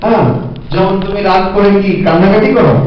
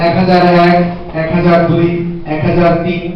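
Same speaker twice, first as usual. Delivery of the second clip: counting demo; 2 semitones lower than usual. Shown as a demonstration. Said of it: "বা".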